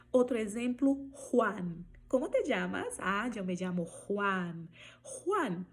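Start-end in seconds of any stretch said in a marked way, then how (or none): 1.1-5.7 Juan with throaty J; Spanish J. Shown as a demonstration. Teacher modeling Juan in a mini dialogue. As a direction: say Juan, J as rasping H. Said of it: "ela vai ter som de R".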